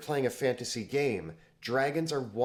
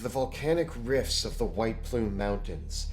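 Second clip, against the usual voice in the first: game master narration. Acted. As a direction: set the scene like a dungeon master. Game master sets the scene.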